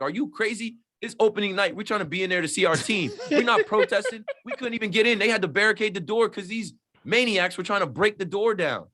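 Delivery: high, indignant retort that bursts into a laugh midway; incredulous outburst. Retold or imitated. Answering online claims about fans protesting, in a high incredulous retort. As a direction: act amazed anyone could call you a protester. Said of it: "I'm like".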